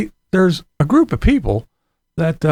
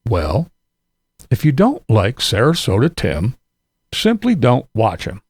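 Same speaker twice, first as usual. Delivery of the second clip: lower, mocking quote of Christopher; 5 semitones lower than usual. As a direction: parrot his advice in a lower sneering voice. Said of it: "Christopher says".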